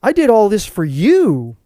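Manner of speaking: high, pleading for praise; imitating the wife. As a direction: she wants him to see her effort. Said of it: "waiting for him to be like".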